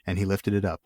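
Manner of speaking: steady, measured reading of an epic; story narration. A narrator's reading. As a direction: read it like a solemn saga. Reads the book aloud.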